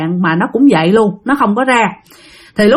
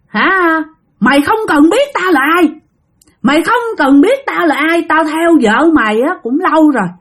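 higher-pitched, insistent acted retort; lightly voiced possessing spirit, scolding and threatening; defiant spirit; 6 semitones higher than usual. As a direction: talk back as an indignant ghost. Possessing spirit answers back defiantly.

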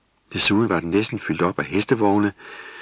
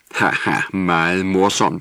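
grumbling; 5 dB louder, slower than usual. A narrator's reading. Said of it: "brummede Vrisnis".

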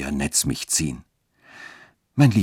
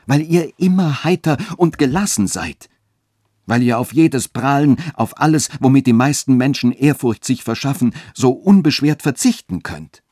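high, fervent, louder speech; youth calling out; 7 semitones higher, 4 dB louder than usual. A narrator's reading. Youth warns her how others slander her, calling out fervently. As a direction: press the point ardently, pitch climbing. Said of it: "rief der Jüngling".

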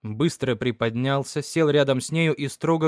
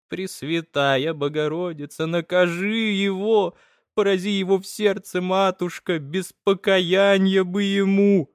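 mother praying to the icons against her husband, higher wailing curse; dry eerie curse; 6 semitones higher than usual. Acted. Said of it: "шелестят сухие жуткие слова".

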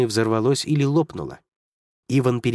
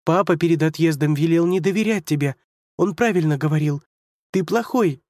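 angry accusation; 6 semitones higher than usual. Acted. Girl accusing Hunter.

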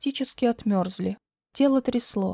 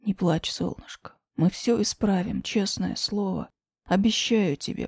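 tender comforting. Acted. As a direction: soothe her gently. Grisha comforts crying Lena.

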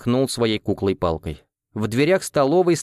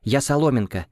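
firm angry correction; angry insistence; 3 semitones higher than usual. Acted. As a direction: insist on the name, annoyed. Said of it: "вспыхнула Соломенко".

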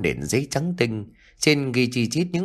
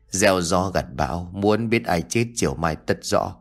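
a slightly lower, eerie spirit medium intoning doom; medium's prophecy; 4 semitones lower than usual. Acted. Cô Đồng's cryptic prophecy. (giọng bà đồng hơi trầm, phán điềm gở)

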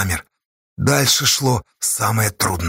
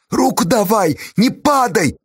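pleading call; 8 semitones higher than usual. A narrator's reading. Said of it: "просил Никешка".

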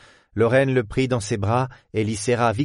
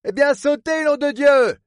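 dazed retort; 4 dB louder than usual. Acted. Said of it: "répliqua celui-ci hébété".

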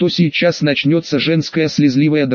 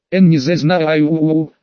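ordinary delivery, nothing marked

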